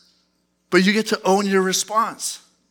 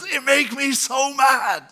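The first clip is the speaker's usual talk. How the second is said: mock angry; 6 semitones higher, slower than usual. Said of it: "maybe it's your coworkers".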